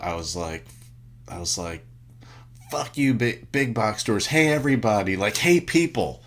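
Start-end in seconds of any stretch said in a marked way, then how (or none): 2.7-6.2 loud, high, hammed-up yelling at the crowd; mock shout. Stuck in traffic, yelling at fellow Americans, mock shout. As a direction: bellow it out like a street-corner rant. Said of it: "like, shout".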